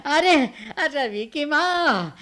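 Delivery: slow drawn-out call. Acted. Old father calls Ravi's mother, slow drawn call. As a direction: stretch the name out to reach the next room. Old man calling his wife.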